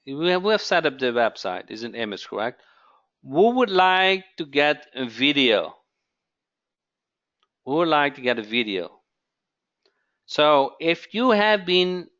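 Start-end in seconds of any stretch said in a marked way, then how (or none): 3.2-5.7 emphatic question. Real, not acted. Host asking viewers who wants a video, emphatic. 7.6-9.0 quick repeat. Real, not acted. Host repeating the question to viewers, quick and lighter.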